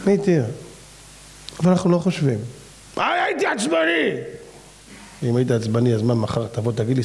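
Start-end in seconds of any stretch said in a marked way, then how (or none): 3.0-4.1 high, whiny put-on voice of the excuse-maker; mock excuse. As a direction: squeal out the lame excuse mockingly. Mocking a listener's excuse. (חיקוי מתבכיין וגבוה של תירוץ)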